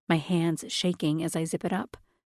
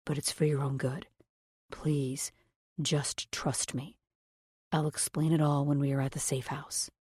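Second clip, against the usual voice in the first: soft, fading to a whisper; almost whisper it, pleading; barely audible; 2 semitones lower, 5 dB quieter than usual. A narrator's reading. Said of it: "the words barely audible".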